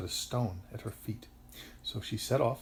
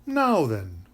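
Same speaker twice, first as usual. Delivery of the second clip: loud, rounded kindly inquiry; 3 semitones higher, 8 dB louder than usual. A narrator's reading. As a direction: ask kindly, with full voice. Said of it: "said a kindly voice".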